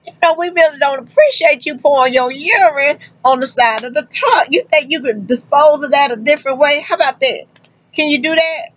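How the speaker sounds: mock polite request. Trucker tells the driver off in a mock polite voice.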